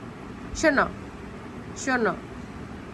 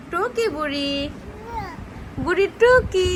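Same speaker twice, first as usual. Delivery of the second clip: peekaboo call; 4 semitones higher, slower than usual. Real, not acted. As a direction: pop out with a playful cry. Peekaboo game with baby. (লুকোচুরি খেলায় উঁচু গলায় টুকি)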